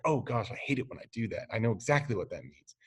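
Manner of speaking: quick, soft, commiserating; like you've felt that pain yourself; knowing sympathy. Pretend. Hearing a friend stubbed a toe, quick rueful commiseration.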